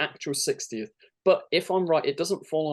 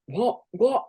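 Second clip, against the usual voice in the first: stunned disbelief; 9 semitones higher than usual. Pretend. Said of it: "And then Donna going like".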